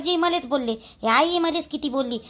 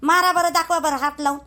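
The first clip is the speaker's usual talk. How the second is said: defiant dare; 2 semitones higher than usual. Acted. Daring him to hit her.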